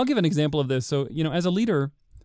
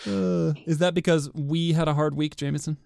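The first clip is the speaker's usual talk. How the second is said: kindergarten teacher voice. Real, not acted. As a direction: talk like you're soothing a preschool class. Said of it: "You sound like a kindergarten teacher now".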